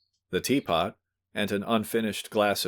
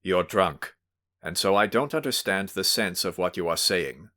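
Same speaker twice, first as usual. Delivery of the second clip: stern. Acted. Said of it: "he observed sternly".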